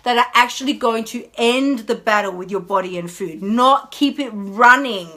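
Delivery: brisk, pointed inner voice; nagging inner voice. Retold or imitated. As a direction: challenge yourself briskly. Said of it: "little part of our brain pops up".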